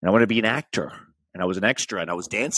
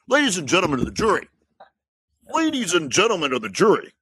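courtroom lawyer voice; 5 semitones higher, faster than usual. Acted. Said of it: "This is my courtroom voice".

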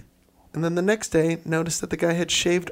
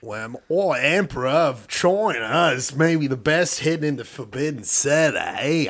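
put-on Australian accent. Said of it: "it's just all Australian".

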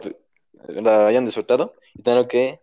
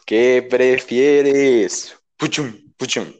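very slow, drawn-out title with spoken sound effect; show segment intro; much slower than usual. Pretend. Host presents the podcast's question game, drawn-out announcer delivery. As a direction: stretch out the title, then add the jingle hits. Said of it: "sin hacer yo la presentación".

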